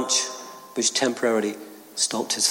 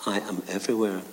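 lower, softer, calm voice from above; voice of God; 3 semitones lower, 4 dB quieter than usual. Acted. God answering Jack on the cliff, low and calm. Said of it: "The voice said".

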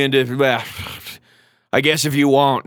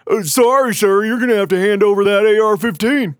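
higher, prim polite officer voice; imitating a fed; 7 semitones higher than usual. Federal agent at the porch demanding the rifle, mock-polite. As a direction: play the agent as meek and by-the-book. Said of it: "And they say".

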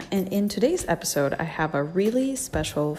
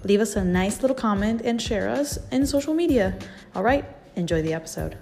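fuzz distortion. Real, not acted. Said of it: "we apologize for the distorted audio".

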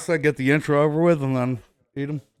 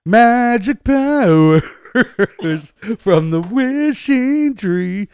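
laughing; 8 semitones higher, 4 dB louder, much slower than usual. Real, not acted. Laughing quote of an old bit.

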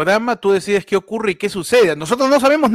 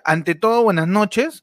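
grand poetry declamation; slower than usual. Acted. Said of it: "cómo dicen cuando declamas una poesía".

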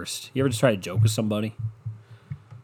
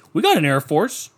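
high, goofy voice pitching an idiotic plan; dumb guy voice; 12 semitones higher than usual. Retold or imitated. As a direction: play the clueless guy with a dopey higher voice. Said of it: "And then he's like".

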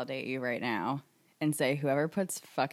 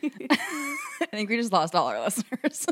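slow words through a laugh; a real laugh running through the words; 5 semitones higher than usual. Real, not acted. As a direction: joke while laughing. Laughing at their own rant.

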